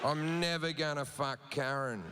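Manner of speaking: slow, sinking dread over Karen; a fan realising his night is ruined, slowly; dismayed fan. Retold or imitated. Fan sees Karen at the show, slow dismay.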